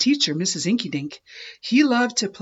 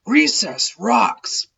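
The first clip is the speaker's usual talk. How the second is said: slow, louder bellow; 4 semitones higher, 4 dB louder, slower than usual. Acted. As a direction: bellow it gleefully. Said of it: "bellowed Clark the Shark".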